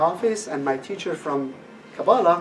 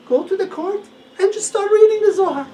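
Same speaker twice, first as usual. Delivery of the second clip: emphatic advice; 5 dB louder than usual. Retold or imitated. Teacher's advice retold.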